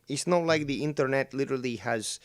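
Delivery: put-on Latino accent. Bored viewer complaining about the show, in a Latino accent. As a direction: slip into a mock Latino accent. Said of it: "doing a Latino accent".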